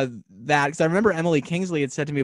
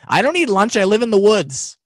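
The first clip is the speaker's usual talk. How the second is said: loud, high goofy beaver puppet; cartoon beaver, playful and loud; goofy muffled sock puppet; 7 semitones higher, 8 dB louder than usual. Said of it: "I went".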